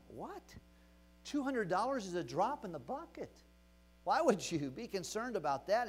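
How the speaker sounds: privately baffled, swooping up in disbelief; incredulous. Retold or imitated. Incredulous inner reply, retold.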